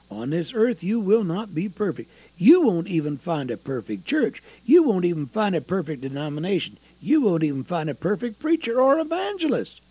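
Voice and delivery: insistent, building repetition; emphatic preaching. Real, not acted. Preacher warning listeners nobody is perfect, emphatic preaching. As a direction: drive each repeated phrase home, rising at the last.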